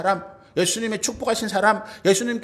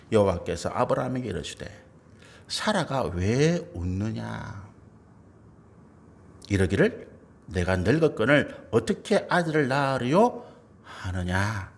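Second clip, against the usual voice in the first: low, measured Bible reading; scripture reading; 8 semitones lower than usual. Acted. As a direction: read the verse out solemnly, well below preaching pitch. (낮고 엄숙한 성경 낭독)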